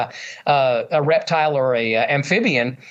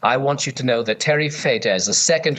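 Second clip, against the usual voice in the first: puppet voice; 5 semitones lower than usual. Pretend. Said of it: "And give him a voice, if you would".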